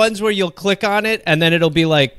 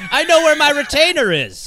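higher, louder proclamation from a deathbed; a hammed-up dying confession; mock dramatic last words; 11 semitones higher, 3 dB louder than usual. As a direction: announce it, pitched up and loud.

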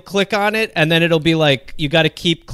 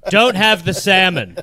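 mock last words; 3 semitones higher, 4 dB louder than usual. Joking deathbed last words.

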